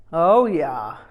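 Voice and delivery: a short amused laugh through oh yeah. A narrator's reading. Rinpoche recalls the first meeting, laughing. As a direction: chuckle it out, amused. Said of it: "he laughed".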